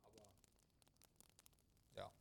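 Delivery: talking while chewing; mouth full. Real, not acted. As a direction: talk through a mouthful. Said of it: "Podcast mit vollem Mund".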